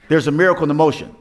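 fast preacher echo with miracle stressed; quick emphatic repeat. Shown as a demonstration. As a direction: rattle off There's a miracle in the motion quickly, pressing miracle.

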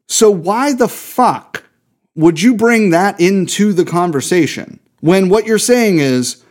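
real indignation, punching the swear word; slow, heated, exasperated demand. Real, not acted. Podcast host calling out a business over drunk driving, heated. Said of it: "I'm very heated this episode".

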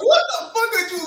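high, laughing yell of disbelief; a loud, laughing what the; incredulous shout. Retold or imitated. Mocking an online commenter, high laughing shout. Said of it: "I was like".

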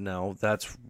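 ordinary delivery

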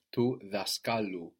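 to daskalu with KA stressed; accent pulled later. Shown as a demonstration. Teacher demonstrates the accent pulled along, KA stressed in daskalu. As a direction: stress the middle syllable of daskalu. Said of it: "u can pull the accent towards it".

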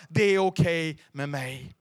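slow, booming declaration; loud proclamation. Acted. Pastor proclaiming to the congregation, slow and booming. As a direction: proclaim it for all to hear.

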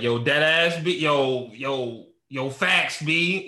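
a hint of New York street talk; lightly mock the Bodega Boys, drawn out; Bodega Boys slang. Friend mocks podcast listeners, a hint of New York slang. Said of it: "you listen to Bodega Boys and you're like".

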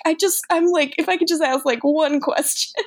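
lightly voiced heartbroken Damon asking her; sad plea. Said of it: "'cause it's so sad here".

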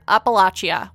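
Appalachia said as "apple-ah-chee-uh", open ah and ch; Appalachia, ap-uh-LAH-chee-uh; third pronunciation. Shown as a demonstration. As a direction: Appalachia with a broad middle ah. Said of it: "heard this word said several different ways".

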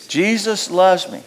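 slow, sincere affirmation; slow call and response. Shown as a demonstration. Pastor leading the church in saying Jesus loves me. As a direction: lead the congregation through it slowly. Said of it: "Can you say with me".

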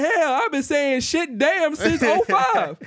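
high, slow, drawn-out mock defiance; hammed-up high-pitched cheeky retort; retold defiant comeback. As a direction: brag back at mom, stretching it out. Retelling cheeky comeback to mom.

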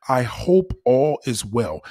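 slow, drawn-out hollow politeness; insincere. Shown as a demonstration. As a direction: say it like you don't really care. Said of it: "That's just not sincere".

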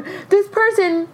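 high, slow re-enacted cry to mom; breathless-with-news mock scream; screaming excitedly. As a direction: call out to mom, bursting with news. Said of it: "I start screaming".

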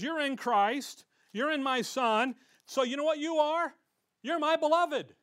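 lightly acted Father, rising to a loud pronouncement; the Father declaring. The Father looks at you in Christ, emphatic declaring. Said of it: "the Father looks at you and says".

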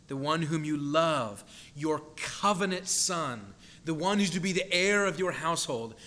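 piling up phrases, each pressed harder; emphatic command. Shown as a demonstration. Preacher voicing God's command to Abraham, piling on emphasis. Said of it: "the emphatic nature of God's command".

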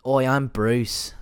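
loud, drawn-out mock Australian accent. Voicing the movie shark Bruce, loud Australian accent. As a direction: put on a big Australian accent, slowly. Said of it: "'cause he's Australian".

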